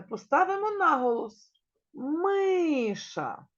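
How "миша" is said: Миша with the first syllable МИ punched; stress on first syllable. Shown as a demonstration. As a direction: lean hard on МИ in Миша. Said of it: "На якому складі наголос".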